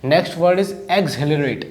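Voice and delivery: slow, drawn-out word announcement; teacher reading out the next word. Shown as a demonstration. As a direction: announce the new word slowly and clearly.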